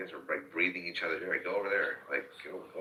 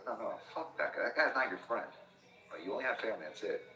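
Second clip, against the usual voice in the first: mock stern dad; 5 semitones higher than usual. Lecturing daughter about friends.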